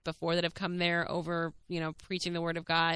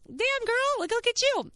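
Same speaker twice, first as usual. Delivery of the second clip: high, squealed self-admiration; proud self-hype; 3 dB louder than usual. Retold or imitated. Home from a scary movie alone, high proud self-hype. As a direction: cheer yourself on in a high voice.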